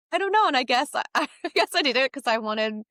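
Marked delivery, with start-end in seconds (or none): 0.1-0.5 coy. Retold or imitated. Coy reply to request.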